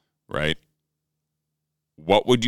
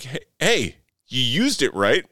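amused; 6 semitones higher than usual. Retold or imitated. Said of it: "part of me's like".

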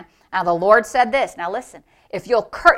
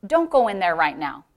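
softer, lower, gently discouraging; nice coaxing voice; 3 semitones lower, 3 dB quieter than usual. Retold or imitated. Devil sounding like God warns a father off, softly coaxing. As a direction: imitate a deceptively kind voice. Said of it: "was a real nice voice".

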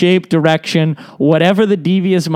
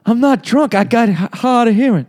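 Bill Clinton voice; 4 semitones higher than usual. Pretend.

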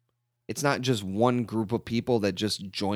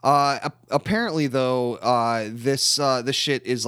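put-on Ukrainian accent; 7 semitones higher, 4 dB louder than usual. Ukrainian Ray complaining about the ATM in a loud Ukrainian accent. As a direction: back into a loud, high fake Ukrainian accent. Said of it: "I lost my accent".

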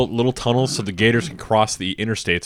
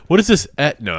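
put-on Dutch accent; 4 semitones higher, 3 dB louder than usual. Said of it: "I can't do a Dutch accent".

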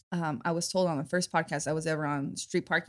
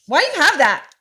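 put-on child asking; 9 semitones higher, 12 dB louder than usual. Daughter Lily voiced in story.

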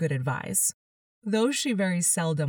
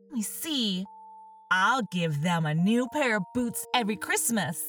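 Alice worrying about her feet; tender young Alice; 3 semitones higher than usual. Acted.

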